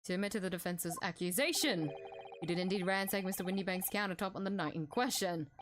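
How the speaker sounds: a hint of a stern prosecutor; lightly voiced stern prosecutor. Reads judge or prosecutor lines.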